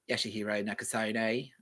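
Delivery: put-on lightly camp Aussie bogan accent. Streamer trying out a gay Aussie bogan, camp bogan accent. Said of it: "trying to do a gay Aussie Bogan".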